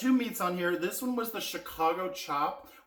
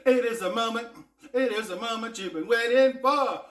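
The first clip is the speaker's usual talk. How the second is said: excited; 9 semitones higher, 7 dB louder than usual. Acted. Big reveal of the dish.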